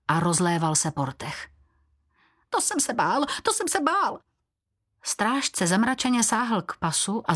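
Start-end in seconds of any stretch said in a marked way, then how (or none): 2.5-3.2 high, fearful little creature voice, first "To jsem se bál" rising; a cringing sidekick squeaking in fear; frightened servant. Acted. Frightened servant Běloran speaks. 3.4-4.2 very high squeaky "to jsem se bál" falling at the end; the cowering servant repeating his fear in a squeak; frightened servant, even higher. Acted. Frightened servant Běloran speaks.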